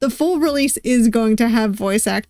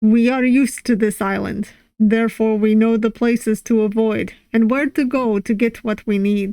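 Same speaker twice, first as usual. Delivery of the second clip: put-on, corny attempted Russian accent. Voicing a russian character's lines, in an attempted russian accent. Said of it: "I've attempted a Russian accent".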